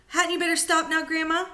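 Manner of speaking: put-on a small boy begging grandma to stop; young George, worried.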